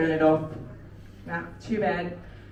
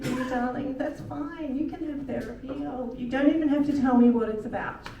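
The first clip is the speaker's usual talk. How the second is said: higher, sugary mum voice; sweet reassuring mother; 5 semitones higher than usual. Retold or imitated. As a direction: soothe her sweetly, then warn. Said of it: "I said".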